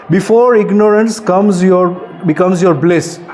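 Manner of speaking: slow, weighty poem reading; poem recital. Acted. Speaker reciting his own poem to teenagers, slow and solemn. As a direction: recite each word slowly like a call to wake up.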